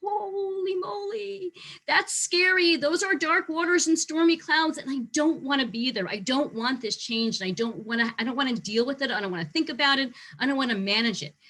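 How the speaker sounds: a hammed-up scared "holy moly"; scared staff member. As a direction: act out a worried employee dreading change. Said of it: "there are a lot of people who see change and go".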